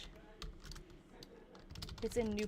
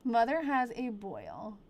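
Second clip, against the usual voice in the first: put-on old-timey voice; 4 dB quieter, slower than usual. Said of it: "in a crazy fake, um, old-timey voice".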